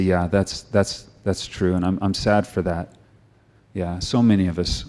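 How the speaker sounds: congregation's hushed, sorry confession; quiet sad confession. Pretend. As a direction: confess it quietly, a little ashamed. Congregation voiced confessing honestly.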